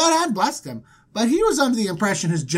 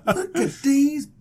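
flexing show-off; 3 semitones higher than usual. Retold or imitated. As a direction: show off your muscles, hammed-up. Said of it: "he'd been flexing in front of him".

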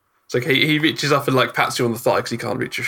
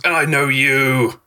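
slow, rising to high doom; prophet gnome; 9 semitones higher, slower than usual. Acted. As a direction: point and pronounce doom slowly. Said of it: "points at someone in the crowd and goes".

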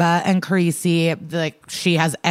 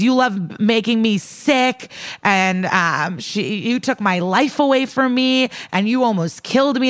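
higher-pitched imitation of an upset daughter; retold distraught accusation; 5 semitones higher than usual. Daughter accusing the mother who made her sick, mock distraught. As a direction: act out the hurt, pitch raised.

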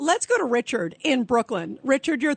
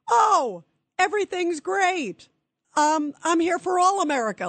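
high mocking singsong, much higher pitch; mock him as smug and dismissive; mocking impression; 8 semitones higher than usual. Radio host mocking the president's upbeat closing line. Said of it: "he wraps up with".

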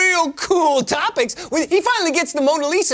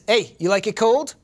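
menacing villain; 7 semitones lower than usual. Acted. Walt Disney villain line.

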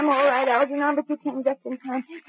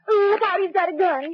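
sudden raised cry of alarm, pitched up; alarmed warning; 4 semitones higher than usual. Acted. Betty warns the gang the killer has drawn a gun, alarmed cry. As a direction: shout the warning in fright as the gun comes out.

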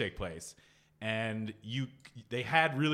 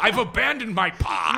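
put-on Irish accent; 5 semitones higher, 9 dB louder than usual. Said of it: "the Irish is a bit easier".

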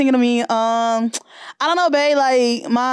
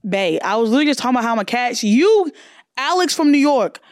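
much higher, gushing with delight; excited, flattered; 7 semitones higher than usual. Real, not acted. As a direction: soak up the compliment, voice flying up. Flattered by caller's compliment.

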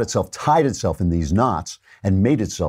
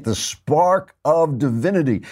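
mocking; 5 semitones higher than usual. Mocking Pelosi's phrase.

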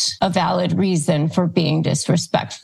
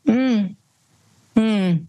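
a doubtful, drawn-out closed-mouth "Mm" then "Hmm"; skeptical hum; 2 semitones higher than usual. Shown as a demonstration. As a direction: hum back unimpressed, as if to say okay but no. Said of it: "look at them like this".

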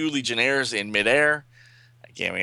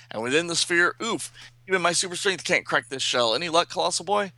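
higher voice with effort grunts; struggling superhero; 6 semitones higher than usual. Acted. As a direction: act out straining against a shell.

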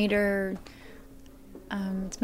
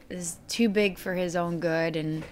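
ordinary talk, nothing marked

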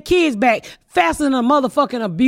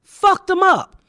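outraged slow shout; 6 semitones higher, much slower than usual. Real, not acted. Outraged rant about the court.

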